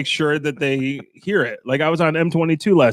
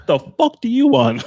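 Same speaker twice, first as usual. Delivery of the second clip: mock irritation; 7 semitones higher, 3 dB louder than usual. Acted reaction to honking drivers.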